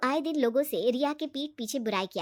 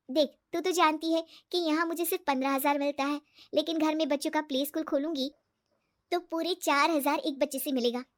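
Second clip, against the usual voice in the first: higher-voiced, lightly eager explaining; hopeful friend Riya; 4 semitones higher than usual. Riya telling her friend about the play school, hopeful. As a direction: lay out a business plan hopefully.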